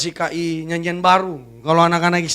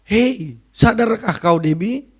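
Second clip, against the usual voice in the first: devil's voice; slower than usual. Acted. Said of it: "itu iblis tuh begitu".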